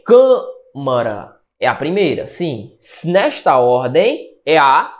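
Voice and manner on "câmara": "Câmara" with a strong, drawn-out first syllable; stress on CÂ in CÂMARA. Shown as a demonstration. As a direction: lean hard on the start of "Câmara", then let the rest fall. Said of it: "Qual a sílaba mais forte?". ("Câmara" com a primeira sílaba forte e alongada)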